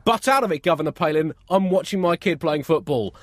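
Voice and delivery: loud, high, irritated touchline parent; annoyed parent. Retold or imitated. Touchline parent telling Palin to butt out, annoyed. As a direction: snap at the politician from the sidelines. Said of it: "You're probably gonna hear them say".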